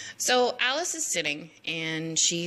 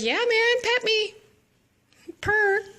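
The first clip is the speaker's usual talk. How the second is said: very high, louder purring tease; flirty cat voice; 4 dB louder, slower than usual. Retold or imitated. Cheshire Cat begging for pets, high purring voice. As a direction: purr it like a smug cat. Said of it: "he's like".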